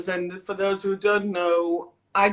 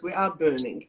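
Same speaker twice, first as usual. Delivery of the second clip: said through a laugh, lower and softer; 6 semitones lower, 5 dB quieter than usual. Real, not acted. Host joking with guest about burning sage, laughing. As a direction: giggle the words out.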